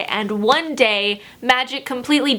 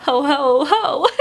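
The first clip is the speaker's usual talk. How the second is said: Santa laugh; 2 semitones higher, slower than usual. Pretend. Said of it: "Why am I Santa suddenly?".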